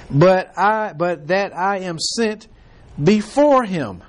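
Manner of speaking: slow, measured Bible reading; preacher reading King James verses; scripture reading. Acted. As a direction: read the verses deliberately from the pulpit. Reads scripture passage aloud.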